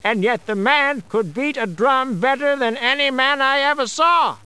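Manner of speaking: half to himself, marvelling; muttered to himself. A narrator's reading. Narrator voicing the man marvelling to himself. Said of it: "as if to himself".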